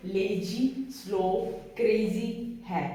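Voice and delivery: लेजी स्लो क्रेजी said slowly as a memory phrase; mnemonic reading. Shown as a demonstration. Teacher shows the class a memory phrase for the name, slow. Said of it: "ऐसे पढ़ना इसको".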